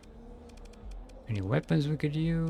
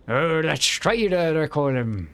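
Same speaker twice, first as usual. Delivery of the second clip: pirate bar owner; 3 semitones higher than usual. Acted. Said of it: "I also sound like a pirate".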